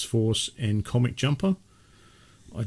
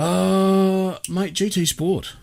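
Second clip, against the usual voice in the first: announcer voice; 11 semitones higher, 3 dB louder, much slower than usual. Pretend. Announcing next topic in voice.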